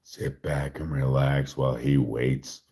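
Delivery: calm, even narrator intro; mild narrator voice. Pretend. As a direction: narrate it like a nature documentary. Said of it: "frickin' broke character".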